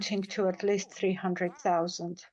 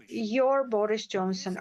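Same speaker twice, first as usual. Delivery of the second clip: a touch of irony on "Your Boris Johnson", stress on "Your"; mildly mocking "Your", as if he were yours; ironic.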